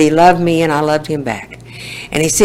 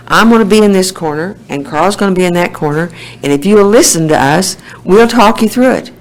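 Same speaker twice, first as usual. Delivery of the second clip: put-on louder, higher old coach reassuring his student; imitating Mister Pat; 4 semitones higher, 5 dB louder than usual. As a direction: call out like the old teacher promising to talk her through the ride. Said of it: "Now, he said".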